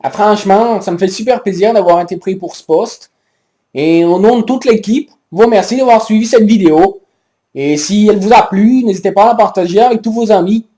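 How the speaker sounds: lightly voiced Québécois presenter; a hint of a Quebec accent, upbeat. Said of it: "qui nous vient tout droit du Québec". (léger accent québécois)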